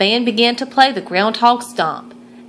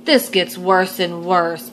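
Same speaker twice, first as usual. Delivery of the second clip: moaned; 2 semitones lower, slower than usual. Acted. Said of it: "moaned Gregory".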